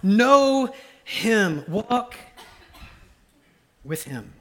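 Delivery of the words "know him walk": louder, higher, laughing exhortation; laughing loud encouragement. Real, not acted. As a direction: urge them on through a laugh. Laughing emphatic exhortation to youth.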